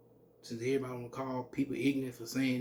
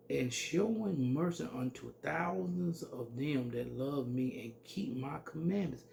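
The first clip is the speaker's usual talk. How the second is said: scripture reading. Shown as a demonstration. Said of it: "let me read that one more time".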